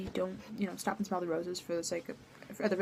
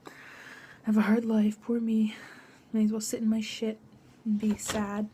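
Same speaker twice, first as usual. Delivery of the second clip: whiny self-pity; 4 dB louder than usual. Retold or imitated.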